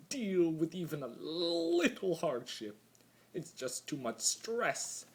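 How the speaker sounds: high, whiny mock outrage; mocking ponies. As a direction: lampoon them as melodramatic crybabies.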